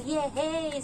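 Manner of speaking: retold teasing little hooray; teasing cheer. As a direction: tease with a singsong cheer. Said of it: "nang-aasar ako".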